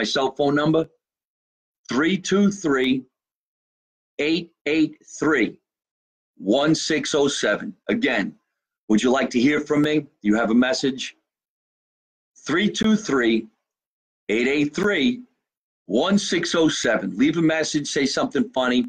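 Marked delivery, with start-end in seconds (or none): 1.9-7.8 very slow, each digit spaced out for jotting down; slow careful dictation. Real, not acted. Host slowly dictating his phone number to fans. 12.4-17.2 very slow, each digit spaced out for jotting down; slow careful dictation. Real, not acted. Host slowly dictating his phone number to fans.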